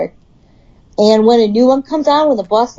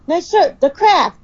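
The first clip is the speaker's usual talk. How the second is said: higher-pitched imitation of a Boston-Scottish accent; Bostonian-Scottish accent; 8 semitones higher than usual. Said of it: "in his Bostonian slash Scottish accent".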